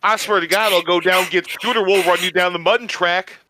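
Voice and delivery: mock southern threat; lightly hammed-up southern troublemaker; southern accent. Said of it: "but with a southern accent".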